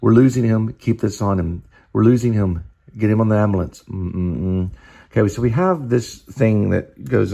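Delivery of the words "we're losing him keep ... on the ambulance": loud, alarmed medic calling out; urgent shout. Acted. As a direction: raise the alarm, the patient is slipping. Paramedics losing the patient.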